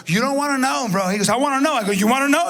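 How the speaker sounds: rising heated retort; heated back-and-forth. Retold or imitated. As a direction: push back, getting heated. Acted bar argument with guy.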